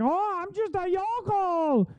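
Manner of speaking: high, soft, slow hick parody; mocking folksy Midwest yokel voice. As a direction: sneer at her as a put-on country bumpkin. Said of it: "really leans into it".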